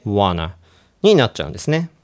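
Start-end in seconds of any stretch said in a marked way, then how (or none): 0.1-0.5 "want to" run together into "wanna"; T swallowed. Shown as a demonstration. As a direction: merge into casual "wanna". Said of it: "Tの音が飲み込まれて". (Tを飲み込んだ「wanna」)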